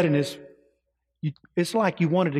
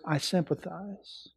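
softer, slow and tender reply; gentle voice of God; 8 dB quieter than usual. Acted. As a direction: soothe the sinner slowly. God answers the penitent.

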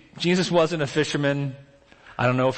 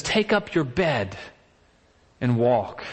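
calm command; 4 semitones lower, slower than usual. Retold or imitated. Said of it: "and says".

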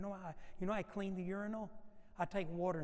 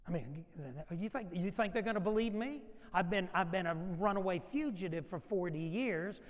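Moses protesting; 4 dB louder than usual. Retold or imitated. Moses objects to God.

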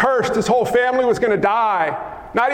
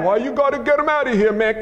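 casual questioning disciple; faster than usual. Acted. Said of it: "They said like this".

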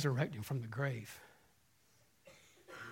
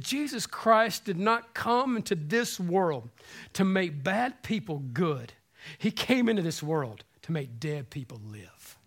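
preaching quote; slower than usual. Acted. Preaching at full force.

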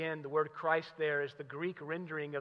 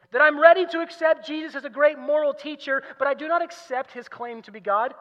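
raised, emphatic preacher's delivery; impassioned preaching; 8 semitones higher, 9 dB louder than usual. Acted. Preacher quoting Lewis to the congregation, impassioned preaching. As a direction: preach the quotation with force.

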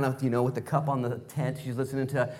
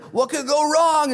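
high, loud, slow sarcastic shrug; mock-naive Abraham; 12 semitones higher, 7 dB louder, slower than usual. Preacher playing Abraham caving to Sarah, high and slow. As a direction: stretch it out like a doomed shrug. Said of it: "And Abe's like".

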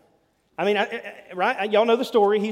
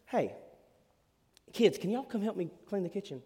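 softer, friendly request; kind gentle tone; 3 semitones higher, 4 dB quieter than usual. Shown as a demonstration. Parent asking the kids nicely to help, gentle and friendly. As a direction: ask sweetly, no pressure.

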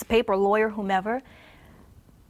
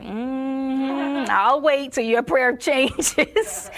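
voicing God; 4 semitones higher, 3 dB louder, much slower than usual. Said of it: "Lord was like".

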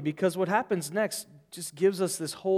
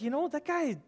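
higher, mock-grumbling gossip; mock indignant; 3 semitones higher than usual. Imagined church member complaining about pastor, indignant gossip. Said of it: "You'd be like".

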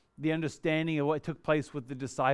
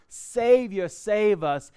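higher, louder plea that drops back; crowd crying out; 4 semitones higher, 5 dB louder, much slower than usual. Retold or imitated. Crowd pleading as Jesus hears them, higher pleading cry. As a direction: beg for rescue, then fade. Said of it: "he's hearing these people cry out".

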